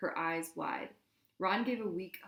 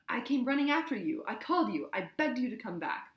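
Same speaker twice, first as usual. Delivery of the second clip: high, loud reproach; hurt, angry shouting; 6 semitones higher, 4 dB louder than usual. A narrator's reading. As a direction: throw it at him. Hermione berating Ron.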